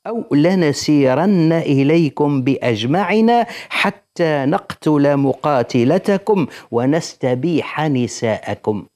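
slow, drawn-out formal recitation; declaimed threat letter. Acted. Teacher reads Quraysh's threatening letter to listeners, slow formal declamation. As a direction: read it out deliberately, stretching the verb endings. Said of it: "نكمل لكم ايش قالوا له في الرسالة".

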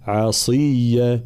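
slow عصية with a clear i after the sad; slow عصية, kasra clear. Shown as a demonstration. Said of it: "فيقول عصية ... لا".

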